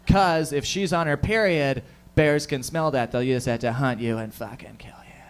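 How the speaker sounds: slow, hushed, ominous warning that sinks to a whisper; friend's warning. Retold or imitated. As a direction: warn him like a campfire tale. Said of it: "He said".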